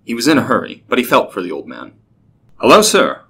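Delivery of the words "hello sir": loud, high greeting; calling out. A narrator's reading. Racer hails old man by the roadside, calling out. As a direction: hail someone a little way off. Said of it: "Archippus called out".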